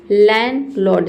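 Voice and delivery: लैंडलॉर्ड as "lan-lord", first D dropped; silent D. Shown as a demonstration. Teacher shows how we will read it, silent D. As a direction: go from N straight into L in लैंडलॉर्ड. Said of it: "से पढ़ेंगे".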